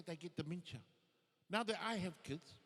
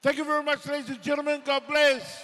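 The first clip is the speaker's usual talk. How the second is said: very loud, higher closing thanks; shouted sign-off; 6 semitones higher, 18 dB louder than usual. Real, not acted. Comedian shouting his thanks to the crowd. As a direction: roar the goodbye to the crowd.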